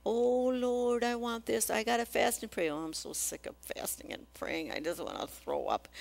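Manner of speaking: hammed-up weary prayer voice; whiny praying believer. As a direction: imitate a tired complainer fasting and praying. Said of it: "many hours saying".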